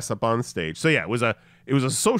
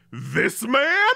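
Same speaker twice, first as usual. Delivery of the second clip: high, loud shocked "man" rising; "This man?" with "man" rising high and loud in disbelief; incredulous "This man?"; 12 semitones higher, 4 dB louder than usual. Retold or imitated. Handler shocked at the white guy: incredulous rising "man". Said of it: "and goes".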